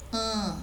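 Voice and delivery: "An" as one soft isolated nasal vowel; nasal sound. Shown as a demonstration. Teacher demonstrating a nasal sound to students, isolated nasal "An". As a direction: send "An" out through the nose, softly. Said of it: "estou falando disso".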